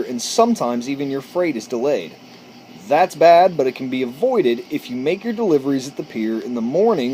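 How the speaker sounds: reading a courteous letter aloud, upbeat; a friendly letter read aloud. Acted. Reads the rewritten letter aloud.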